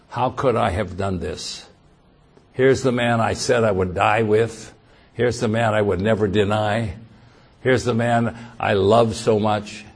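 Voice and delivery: subdued, low lament; mildly voiced remorse of a disciple; repentant. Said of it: "totally repentant".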